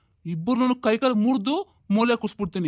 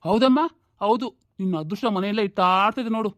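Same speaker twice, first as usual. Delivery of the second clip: sarcastic. Acted. Father mocks wife's words.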